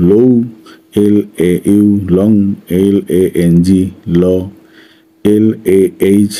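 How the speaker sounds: spaced-out syllables and letter names; measured spelling drill. Shown as a demonstration. Teacher modelling pronunciation for students, measured spelling drill. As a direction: recite evenly, pausing between each spelling. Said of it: "এভাবে তুমি উচ্চারণ করো".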